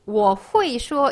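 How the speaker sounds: 会 misread as "hu-i" with no e; 我会说 with 会 jumping from u straight to i; beginner's mistake. Retold or imitated. Teacher imitating how beginners read it, beginner's mistake. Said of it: "이렇게 읽는 초급분들 정말 많아요".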